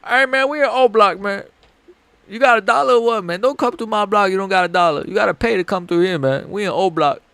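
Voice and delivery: high-pitched mock O Block gangster voice; hamming up a Chicago drill accent, demanding a dollar; Chicago street accent. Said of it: "easier to me than doing a British accent".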